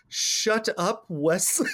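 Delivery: mother teasing her son with the captain's line; Crusher's echo. Retold or imitated. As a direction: echo it playfully as his mom, breaking into a laugh. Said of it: "Crusher sitting there going".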